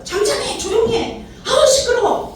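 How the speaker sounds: high-pitched annoyed hushing; scolding. Acted. Crowd hushing the noisy beggar, high annoyed scolding. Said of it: "꾸짖음을 당했어요".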